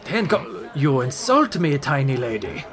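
offended merchant. Acted.

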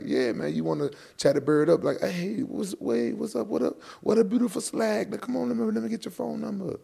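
high-pitched put-on imitation of a British guy; retold British guy. Fighter retelling the British guy's pick-up advice, high mock imitation. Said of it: "He, he told me".

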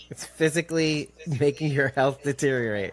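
whispered mock complaint. Real, not acted. Joking to a friend about the secret, whispered. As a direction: hush it like a confession.

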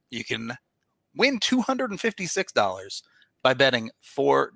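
upbeat sponsor read. Acted. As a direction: pitch it like a podcast ad. Reads sponsor ad.

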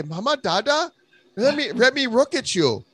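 high, hammed-up put-on accent; mock Asian accent. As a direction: play a foreign character shooing listeners off. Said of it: "go to mama and dad, say".

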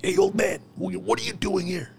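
high, jeering put-on voice; a hint of a taunting drill sergeant; mocking drill sergeant. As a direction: tease the old recruit.

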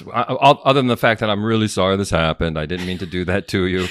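mumbled, half-hearted sorry; apology that doesn't mean it; insincere apology. Acted. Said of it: "That didn't sound very sincere".

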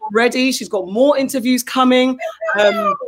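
choking up while bragging about her daughter; voice breaking with pride. Real, not acted. Mother boasting about her daughter's graduation, voice breaking into tears.

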